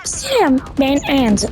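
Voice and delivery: rising then dropping Adal greeting; Adal's odd intro melody; Adal impression. Shown as a demonstration. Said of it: "o çok değişik söylüyor ya".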